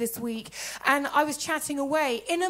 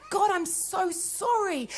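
slow, slightly raised mock-tearful plea; drawn-out apology, lightly acted; retold weeping; 4 semitones higher, slower than usual. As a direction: imitate a remorseful prayer. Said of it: "I was weeping yesterday morning".

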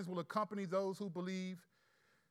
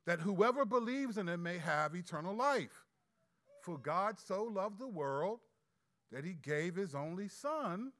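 measured scripture read, a little raised; 2 semitones higher than usual. Acted. Pastor reading Jesus to the congregation, measured read. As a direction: read the words of Jesus to the church.

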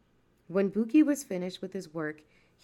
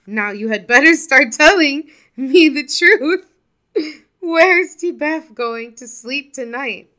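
loud, furious and much higher; angry demand; 7 semitones higher, 15 dB louder than usual. A narrator's reading. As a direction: bark the threat at the boy. Buki loses patience with Maliso.

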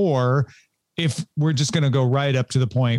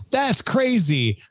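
slow, awed; 7 semitones higher, much slower than usual. Retold or imitated. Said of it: "And I'm like".

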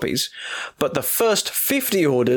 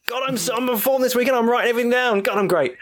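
mock smug; 8 semitones higher, faster than usual. Real, not acted. Mock self-praise.

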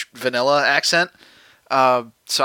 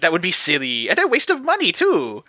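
bad French accent; 5 semitones higher, faster than usual. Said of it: "It sounds like you're doing a bad impression of Simon".

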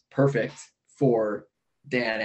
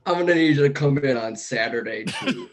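Bill Lumbergh voice. Retold or imitated. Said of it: "Bill Lumberg".

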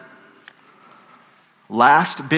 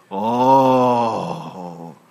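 long drawn-out groan; 6 semitones lower than usual. Acted. Acts crowd reacting to Onesimus entering.

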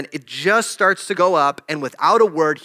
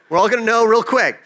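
laughing; 4 semitones higher, faster than usual. Real, not acted. Laughing at his own fear.

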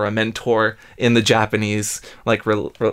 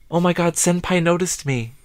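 excited anime fan; 5 semitones higher than usual. Pretend. Acting thrilled anime fan.

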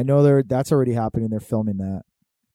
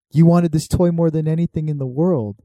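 building up to a loud, higher sappy speech; hammed-up movie dad; 5 semitones higher, 12 dB louder than usual. Comparing Bran's line to a Christmas movie, loud hammy dad. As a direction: ham up the cheesy family-film line. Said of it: "You know what that's the equivalent to?".

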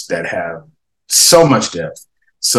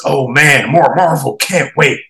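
higher, mock-excited sarcasm; sarcastic troll comment, pitched up; 5 semitones higher, 4 dB louder than usual. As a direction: read it as fake eagerness. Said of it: "In sarcasm".

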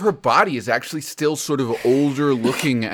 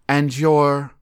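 sultry teasing question; 2 semitones higher, slower than usual. Acted. Witch voiced.

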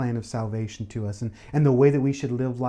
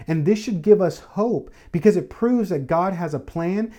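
fervent preaching, pitch lifted, pressing the point; preaching at full force; 3 semitones higher than usual. Acted. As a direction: build the sermon to a joyful peak.

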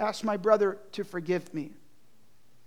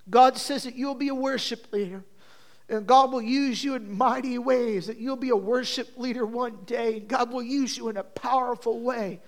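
fervent prophecy; 3 semitones higher, 4 dB louder than usual. Retold or imitated. Retells prophecy prayed over brother.

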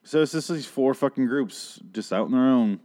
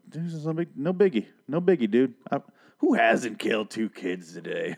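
breezy, pitched-up mockery of Madison shrugging it off; sarcastic mock Madison; 2 semitones higher than usual. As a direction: toss it off like it's nothing, dude. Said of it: "And Madison's like".

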